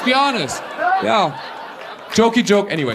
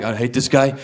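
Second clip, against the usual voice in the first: imitating French woman. French audience member voiced.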